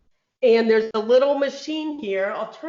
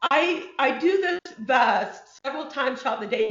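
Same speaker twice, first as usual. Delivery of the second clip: shaking voice; 3 semitones higher than usual. Real, not acted. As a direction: voice rattled by a vibrating vest. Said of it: "You can tell my voice is shaking".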